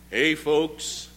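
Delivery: low, casual put-on voice of God. Preacher as God greeting the angels, put-on low casual voice. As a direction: play a folksy God hailing the angels. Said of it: "I think God talks like that".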